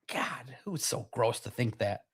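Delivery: hushed, slow whisper to yourself; whispered aside. Real, not acted. Streamer disgusted at his own question, whispered. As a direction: mutter it like a guilty secret.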